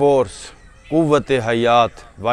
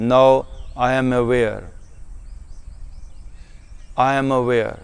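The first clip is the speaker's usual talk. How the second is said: very slow, measured meditation voice; unhurried self-affirmation, letting each phrase sink in; 2 semitones lower, 6 dB quieter, much slower than usual. Shown as a demonstration. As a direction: settle slowly into each affirmation, with long pauses.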